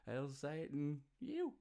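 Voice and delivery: a happy mock-devilish salute; gleeful cheer. Host cheering Australia's love of satanic filth, gleeful. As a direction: hail it high and loud, delighted.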